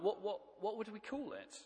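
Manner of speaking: high piggy stammer. Acted. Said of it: "That, that was a pig impression".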